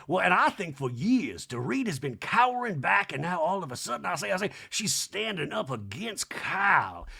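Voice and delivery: hammed-up Southern orator; mock socialite pronouncement; Sutton. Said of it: "Sutton continues in a talking head".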